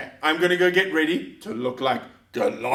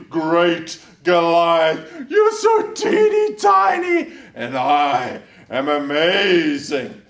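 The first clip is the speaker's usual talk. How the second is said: boastful giant; 3 semitones higher than usual. Acted. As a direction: jeer at them like a bragging giant. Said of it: "Goliath the giant came out and he shouted".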